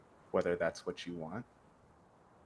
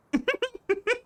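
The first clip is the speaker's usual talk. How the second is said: huge snorting bison; 7 dB louder than usual. Acted. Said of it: "his best Air Bison impression".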